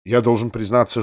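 plain reading voice

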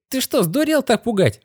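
high-pitched indignant outburst; boiling over. A narrator's reading. Girl startled by the boy's head, boiling over. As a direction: flare up sharply, pitch shooting up. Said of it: "вскипела Китти".

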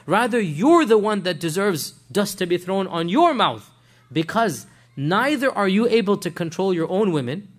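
retold rebuke with heavy emphasis; lashing out. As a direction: scold the messenger, moderately heated. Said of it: "she lashes out at the man".

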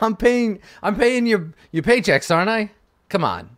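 high-pitched, put-out protest; indignant boss. Acted. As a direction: push back as the one who pays the wages. Acted boss protests being challenged.

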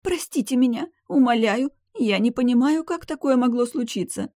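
guilty maid begs her mistress, high and pleading. Acted. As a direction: beg forgiveness in fear.

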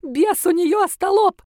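high, loud shriek of a spiteful granny; shrieking old woman. A narrator's reading. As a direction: screech it out, furious and greedy. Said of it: "завизжала она". (визгливый злобный крик старухи)

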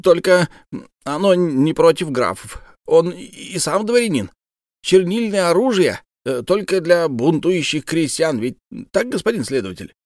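высокий звонкий голос птицы-дамы; говорить высоко, по-птичьи; голос птички. Acted. Bird character voice. (птичка требует, высоко и громко)

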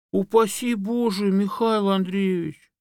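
high, slowed pleading; alarmed protest. A narrator's reading. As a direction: fox clutches paws and protests. Fox protests to bear.

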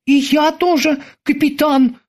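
a sudden pang of worry; worried boatswain. A narrator's reading. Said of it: "неожиданно заволновался боцман". (взволнованный голос боцмана)

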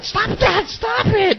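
high, hurried mock scolding; scolding parent. Parent voiced shushing a child who pointed. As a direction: hush the kid in a high parent voice. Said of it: "and then they're like".

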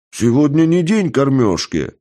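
alarmed guard shouting out; startled exclaim. Acted. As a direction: blurt it out in alarm. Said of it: "воскликнул он".

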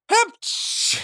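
airy high sneeze; a breathy high sneeze. Acted. Nisse sneezes before refusing the contest. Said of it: "сказал Нисычих".

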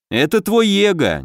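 mildly heated interjection; unable to hold back. A narrator's reading. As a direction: blurt it out, pitch jumping up. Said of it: "не удержался стальной пёс".

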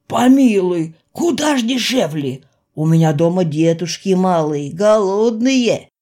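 whining, pleading trader voice; pleading merchant. Acted. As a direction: beg with wide wet eyes. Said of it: "клялся Тонкий".

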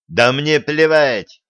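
slow, loud furious outburst; enraged coach. A narrator's reading. Coach exploding at a student's aikido moves, slow furious shout. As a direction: bite off every word in rage. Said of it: "взбеленился тренер".

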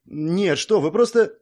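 embarrassed denial; flustered. A narrator's reading. Princess embarrassed, denying and trailing off.

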